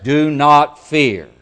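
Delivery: "Do not fear" slow, high and very loud; emphatic command. Acted. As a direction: weigh out each word of "Do not fear" forcefully. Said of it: "That's emphatic".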